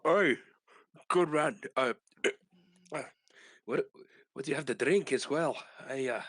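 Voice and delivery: talking through a mouthful of food; words round a big bite; mouth full. Acted. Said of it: "with a full mouth".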